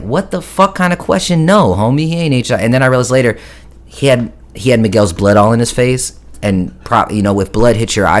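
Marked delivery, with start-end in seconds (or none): 0.0-2.6 much higher, outraged retort; indignant disbelief. Retold or imitated. Speaker answering the doctor's question, high and outraged. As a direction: fire back in shock at the question. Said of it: "And I'm like".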